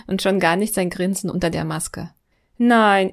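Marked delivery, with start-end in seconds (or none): 2.6-3.1 loud laughing protest; a mock-horrified no. (lachend empörtes Nein)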